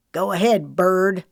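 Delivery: loud, sharp command; barked order. A narrator's reading. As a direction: snap the order out. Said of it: "the sheriff barked".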